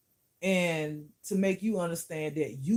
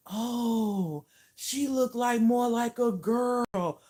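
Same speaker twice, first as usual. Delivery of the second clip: higher-pitched, drawn-out mock amazement; mocking imitation; 6 semitones higher, much slower than usual. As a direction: imitate shallow onlookers, stretching the words up high. Mocking what surface viewers say.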